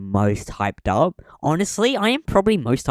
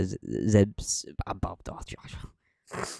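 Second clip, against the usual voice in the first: hushed aside, slow; whispering; 7 dB quieter, much slower than usual. Real, not acted. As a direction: whisper it under your breath. Conspiratorial aside about the list.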